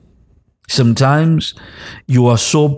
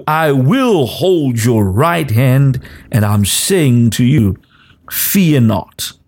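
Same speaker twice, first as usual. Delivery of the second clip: prophetic declaration. Acted. Pastor declaring God's promises over the congregation, prophetic preaching cadence. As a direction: speak God's comfort over them, phrase by phrase.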